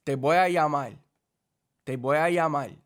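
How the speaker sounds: Puerto Rican Spanish, llamar ending in an L sound like llamail. Shown as a demonstration. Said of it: "how I regularly speak Spanish".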